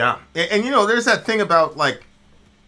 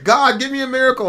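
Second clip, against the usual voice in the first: high, pleading cry to the sky; desperate prayer; 11 semitones higher, 6 dB louder than usual. Retold or imitated. Joke's stranded man begging God for a miracle, high pleading. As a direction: beg God for rescue in a high voice.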